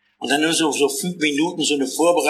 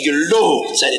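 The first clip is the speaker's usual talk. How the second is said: joyful crowd shout. Acted. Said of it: "Da schrien sie".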